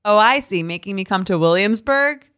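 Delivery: lightly voiced Long Island girl; a hint of Long Island girl. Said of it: "I'll be this girl probably from Long Island".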